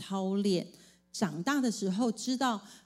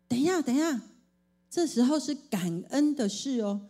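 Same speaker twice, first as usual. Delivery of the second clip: interrupting; 5 semitones higher than usual. Retold or imitated. Mother interrupts child.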